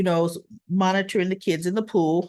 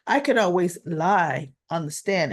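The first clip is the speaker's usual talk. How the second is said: pointed repeat; 3 semitones lower than usual. Retold or imitated. Vlogger repeats Christina's line to a lawyer, pointedly. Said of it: "Now she's telling this to a lawyer".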